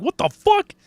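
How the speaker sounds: sudden high startled yelp; shocked outburst. Retold or imitated. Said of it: "I'm like".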